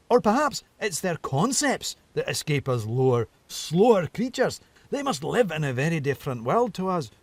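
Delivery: high, playful and teasing fox; a whimsical fox musing aloud; sly fox voice. Acted. Narrator voices Reynard the fox.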